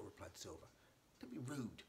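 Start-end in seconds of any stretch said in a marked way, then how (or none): 1.2-1.8 an offended, higher-pitched rebuke; a touch of indignation, rising on these; mild anger. Acted. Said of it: "she said, angrily".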